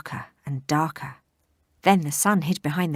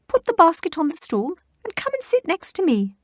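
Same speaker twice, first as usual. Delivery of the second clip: high, loud granny impression; wolf pretends to be grandma; fake granny voice; 13 semitones higher, 5 dB louder than usual.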